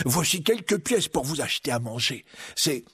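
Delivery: lightly voiced friar; kindly little monk.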